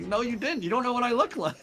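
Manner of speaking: retold rebuttal. Acted rebuttal to the stranger.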